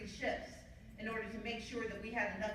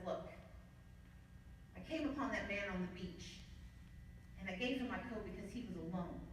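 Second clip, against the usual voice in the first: tender father; 5 dB quieter than usual. Retold or imitated. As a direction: quietly reassure your children. Father's tender explanation to kids.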